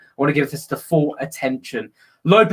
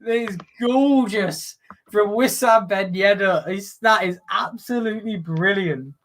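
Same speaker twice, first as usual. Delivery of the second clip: drawn-out, raised-pitch praise; thrilled admiration; 3 semitones higher than usual. Real, not acted. Commentator praising Ben Yedder's penalty, thrilled. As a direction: savour the goal with stretched words.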